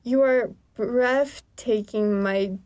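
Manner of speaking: slow, drawn-out courtly line; lightly voiced alien suitor. Alien compliments the narrator, slow and lightly put-on. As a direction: draw out each phrase with pauses. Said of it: "what his voice would be like".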